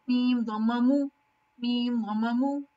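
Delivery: मीम दम्मा मू said letter by letter, short मू with a rising end; spelling out मू. Shown as a demonstration. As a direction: sound out मीम दम्मा मू plainly. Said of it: "it's just".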